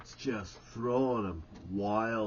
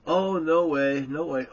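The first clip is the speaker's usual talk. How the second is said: loud refusal; 5 semitones higher, 8 dB louder than usual. Retold or imitated. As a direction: push the offer away loudly. Stan refuses, retold.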